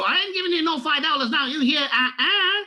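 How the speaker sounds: high, loud sassy put-on voice; mock sassy lady telling someone off; African American lady accent. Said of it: "this is an African American lady".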